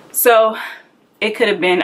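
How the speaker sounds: breathless while talking; out of breath. Real, not acted. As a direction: speak a little winded. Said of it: "I'm so out of breath".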